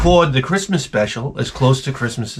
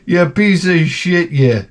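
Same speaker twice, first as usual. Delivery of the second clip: mocking shout; 8 semitones higher than usual. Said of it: "They're like".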